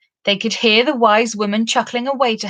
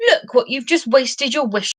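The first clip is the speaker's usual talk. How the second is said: raised angry pixie voice; 4 semitones higher than usual. Acted. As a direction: snap at him in a rage. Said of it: "cried Bobtail in a rage too".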